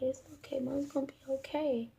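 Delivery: retold child's tender comforting; gentle reassurance. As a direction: soothe quietly through a smile. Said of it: "just smiling, just patting the back".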